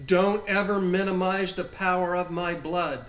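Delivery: firm, measured warning; stern without any anger. Retold or imitated. Jesus leans over to warn his child, stern. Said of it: "but he got stern".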